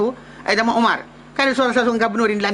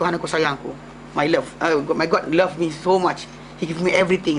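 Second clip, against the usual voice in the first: smug believer; 7 semitones lower than usual. Retold or imitated. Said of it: "dia kata".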